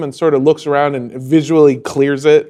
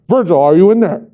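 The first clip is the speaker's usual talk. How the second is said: raised, higher voice of a cop dad; loud official check from outside; calling through a door; 4 semitones higher, 6 dB louder, faster than usual. Acted. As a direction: call out firmly to someone in the next room. Gruff father calls through the door.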